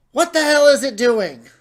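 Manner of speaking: loud high alarmed shout. Acted. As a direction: yell in shock. Alarmed at transformation.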